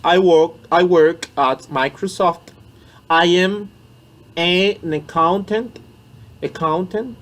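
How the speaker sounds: I work at Microsoft said loud and slow; teaching demo. Shown as a demonstration. Teacher modelling a job answer for students, loud and slow. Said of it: "tu aimerais dire à quelqu'un".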